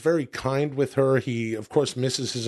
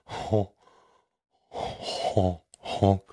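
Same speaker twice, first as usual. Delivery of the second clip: silly clown honks; 5 semitones lower, much slower than usual. Retold or imitated. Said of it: "him going".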